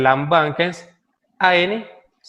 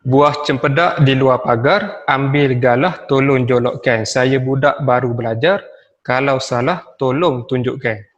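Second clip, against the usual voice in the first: pantun recitation. Shown as a demonstration. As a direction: read it out firmly to the class. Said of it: "Okey, saya ambil satu contoh".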